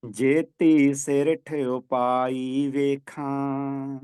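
very slow chanted reading; slow devotional chant; slow scripture recitation. Shown as a demonstration. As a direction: recite each word drawn out, like teaching a verse. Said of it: "ਬਾਣੀ ਦਾ ਪਾਠ ਕਰਨਾ ਹੈ".

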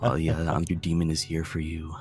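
lightly voiced seductive demon; a hint of sultry demon, teasing; mock demon come-on, understated; flattering impression. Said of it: "that's a very flattering impression".

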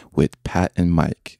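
slow, formal host intro; announcer voice. Acted. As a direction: welcome them like a phone company rep. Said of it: "You sound like you work for A T and T".

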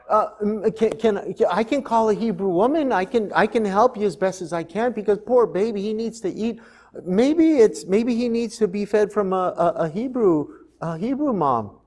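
a hint of a clever little girl thinking aloud; young Miriam. Miriam offers Pharaoh's daughter help, lightly voiced girl.

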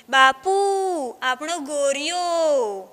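loud cry of discovery, then drawn out slowly; sudden shout. Acted. Daughter finds the lost ox in her bread, shouting to father. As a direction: shout out in joyful shock. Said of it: "એકાએક મોટેથી ચીસ પાડી".

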